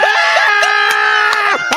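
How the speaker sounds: big burst of laughter; loud laugh. Real, not acted. Big laugh at mom's remark.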